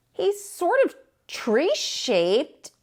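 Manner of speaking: a fussy penguin being practical; prim penguin voice. Acted. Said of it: "added Angel Neatly and Perfect".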